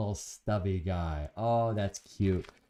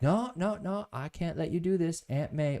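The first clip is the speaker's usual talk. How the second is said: Tom refusing; 8 semitones higher than usual. Retold or imitated.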